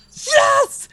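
high delighted yelp; imitating a thrilled friend; excited cheer. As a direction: squeal it like he just won. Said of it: "he was like".

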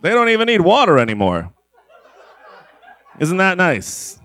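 high, laughing delight; gleeful laugh. Acted. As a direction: giggle through it gleefully. Gleeful about perverse scene.

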